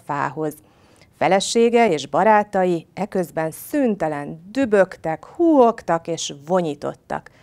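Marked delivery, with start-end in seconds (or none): none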